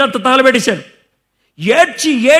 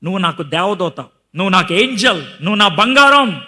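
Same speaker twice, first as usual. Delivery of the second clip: sweet-talking; 3 semitones lower than usual. Retold or imitated. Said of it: "అబ్బాయిలు అనే మాట".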